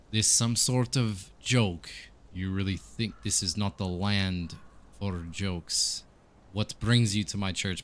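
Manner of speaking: a touch of stern rebuke from the priest; affronted priest. Acted. Priest challenges a coin-flicking visitor, mildly affronted. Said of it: "the priest, seemingly the priest".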